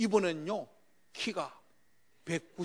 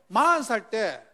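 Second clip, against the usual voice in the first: ordinary delivery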